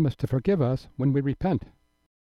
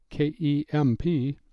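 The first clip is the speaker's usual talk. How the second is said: slow, letter-by-letter spelling; slower than usual. Real, not acted. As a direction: spell it slowly so listeners can note it. Spelling out the surname for listeners.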